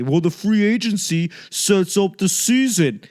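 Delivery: whispered mock reply from a fan. Mocking a fan who says free agency matters, whispered. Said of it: "I don't care about free agency".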